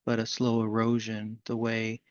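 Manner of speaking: measured recital with long pauses; deliberate poem delivery, easing down at line ends; poetry reading. Acted. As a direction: read it as verse, letting each phrase settle. Host reads own poem.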